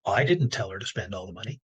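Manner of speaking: "I" stressed at the start of the sentence. Shown as a demonstration. The first person on stage stressing "I". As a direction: hit the word "I". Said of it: "first person would say".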